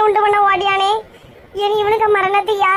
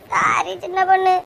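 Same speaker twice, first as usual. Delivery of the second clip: put-on a teary, sniffling sorry to the old woman; tearful apology. Apologising to the sick old woman, crying. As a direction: apologise through fake tears. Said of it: "நாலு சொட்டு கண்ணீரை வடிக்கலன்னா".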